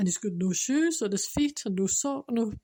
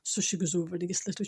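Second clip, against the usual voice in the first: holding back tears; 3 semitones lower, faster than usual. Real, not acted. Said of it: "I'm nearly crying again".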